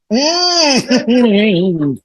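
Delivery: high, drawn-out mock stifled yawn; badly suppressed yawn, done on purpose; stifled yawn demo. Shown as a demonstration. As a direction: act out holding back a yawn at a formal reception. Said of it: "te da ganas de bostezar".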